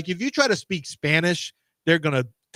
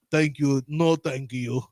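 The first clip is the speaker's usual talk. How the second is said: lower-pitched fake Russian English; bad Russian accent; 4 semitones lower, slower than usual. Beaten bluffer dismissing the visitor, bad Russian accent. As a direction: politely refuse in bad mock Russian. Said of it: "I'm doing a bad Russian accent".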